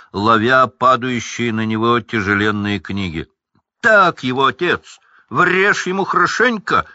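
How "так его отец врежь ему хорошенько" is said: loud, high cheering yell; twins cheering. Acted. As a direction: egg your father on loudly. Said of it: "кричали близнецы". (близнецы громко подбадривают отца)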